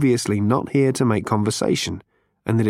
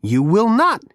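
higher, brash Zaphod voice; 9 semitones higher, 3 dB louder than usual. A narrator's reading.

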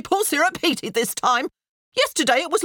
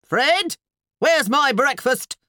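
high, loud, drawn-out bellow; 10 semitones higher, 6 dB louder, slower than usual. A narrator's reading. Wife demanding breakfast from her husband, bellowing. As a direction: bellow it through the house. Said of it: "sounded a nearby bellow".

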